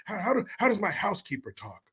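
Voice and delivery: Newsom. Retold or imitated. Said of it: "I meant to be talking like Newsom".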